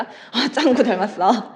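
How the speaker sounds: chuckling through the words; laughing. Acted. Friend laughing as she says who he looks like. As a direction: laugh out the answer.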